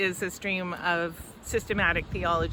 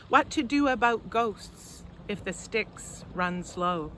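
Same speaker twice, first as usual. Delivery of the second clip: deliberate verse recital with pauses; poetry reading. Acted. Poet reads on old gods to an audience, measured poetry reading. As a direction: read it as a poem, phrase by phrase. Reads own poem aloud.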